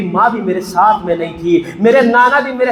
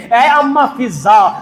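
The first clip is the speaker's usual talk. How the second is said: calling out; slower than usual. Acted. Sughra calls her maid.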